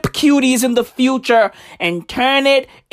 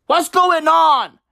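What's going on, louder and slowed, leaning on going; louder, slower repeat; 5 semitones higher, slower than usual. Shown as a demonstration. Mocking the film to the viewers, a slowed, louder repeat. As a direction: push the question harder the second time. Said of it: "repeated louder".

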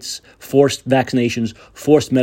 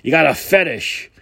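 lightly voiced sneering leftist; mock leftist; slower than usual. Mocking what the left says to gun owners, lightly voiced. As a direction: tease gun lovers in a mild mock voice. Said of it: "the left likes to say".

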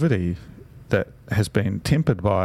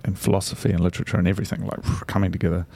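fast, caffeinated rush; words tumbling out quickly; too much caffeine; much faster than usual. Real, not acted. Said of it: "the coffee is kicking in".

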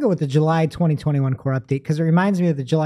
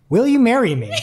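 laughing read; 7 semitones higher, 4 dB louder than usual. Acted. Reading AI pickup line, laughing.

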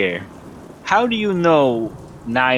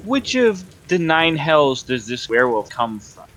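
bluffing; 4 semitones higher than usual. Acted. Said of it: "trying to bullshit him".

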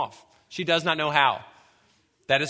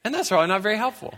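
sheepish realization; 3 semitones higher, faster than usual. Retold or imitated. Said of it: "brief little picture of clarity".

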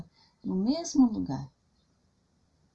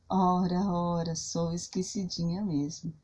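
loving grandma voice. Acted. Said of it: "E muito amorosa respondeu sorrindo".

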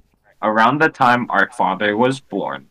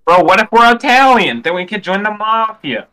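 excited idea; 9 semitones higher, 4 dB louder than usual. Real, not acted.

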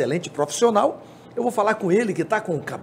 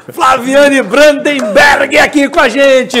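loud laughing introduction; 8 semitones higher, 10 dB louder, much slower than usual. Real, not acted. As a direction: laugh out the guest's name.

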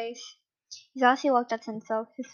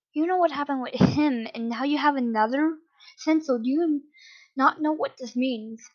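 raised, urgent demand; yelling; 3 semitones higher than usual. Acted. Father confronting his son, raised yell. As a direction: press him hard, voice lifted. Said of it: "Aizawa yelled".

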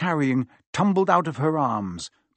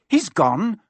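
mildly frantic, a bit louder and higher; alarmed boy blurting a question; lightly voiced frantic Harry; 8 semitones higher, 6 dB louder than usual. A narrator's reading. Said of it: "said Harry frantically".

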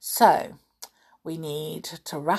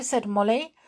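usual speaking voice

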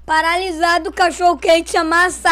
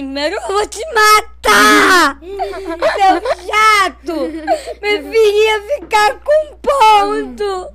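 birra chorosa e muito arrastada; chorando; 4 semitones higher, much slower than usual. Retold or imitated. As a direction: imitar criança revoltada ameaçando em prantos. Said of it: "Aí eu fiquei chorando". (choro zangado encenado)

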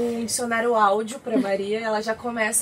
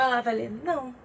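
softer, easygoing não; relaxed no; 3 dB quieter than usual. Shown as a demonstration. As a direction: read não as a calm person hears it, light and friendly. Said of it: "Se ela estiver de boa". (não leve e tranquilo, como lido por alguém de boa)

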